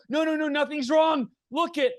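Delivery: high-pitched, hammed-up joyful wail; mock bawling. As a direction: wail it proudly through pretend tears, breaking into laughter. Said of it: "I'm bawling my eyes out".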